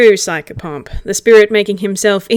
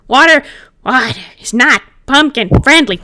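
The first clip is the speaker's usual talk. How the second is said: louder, high indignant pronouncement; indignant declaration; 4 semitones higher, 5 dB louder than usual. Acted. Pumpkin spirit lecturing Gil about water, indignant. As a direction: declare it with wounded dignity.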